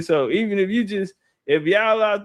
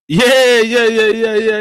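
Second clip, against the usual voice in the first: high, loud burst of yeah; hyped yeah; 5 semitones higher, 7 dB louder than usual. Real, not acted. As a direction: fire up with a hype yeah. Excited hype yeah.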